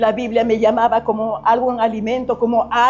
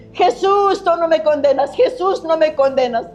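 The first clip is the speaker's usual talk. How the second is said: calling out to Jesus in higher-pitched joy; retold joyful exclamation; 4 semitones higher than usual. Woman twirling in the park calls to Jesus, joyful exclamation. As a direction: repeat it like happy cries of relief, pitch leaping on the name. Retelling her joy at forgiveness.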